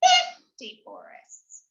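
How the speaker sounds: high, drawn-out "fifty forests"; excited storytelling. A narrator's reading. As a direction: make the number sound huge. Dragon burns forests, big finish.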